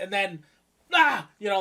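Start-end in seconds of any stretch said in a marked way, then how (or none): 0.9-1.3 jump-scare yell. Retold or imitated.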